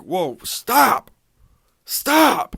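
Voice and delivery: mock referee stopping the fight; referee shout. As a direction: call the stop like a ref jumping in. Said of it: "Chris Tognoni's like".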